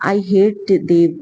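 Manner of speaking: slow, drawn-out tearful words; understated tearful outburst. Acted. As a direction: let each word fall slowly through tears. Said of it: "అంటూ ఏడుస్తూనే ఉంది సిరి".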